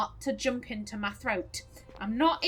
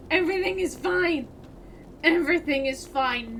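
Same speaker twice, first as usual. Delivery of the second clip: mock panic; 3 semitones higher, 4 dB louder than usual. Real, not acted. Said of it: "Nothing is fine".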